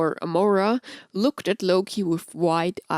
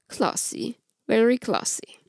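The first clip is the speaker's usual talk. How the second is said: sarcastic; 3 semitones higher than usual. Acted. Loki's dry sarcastic remark.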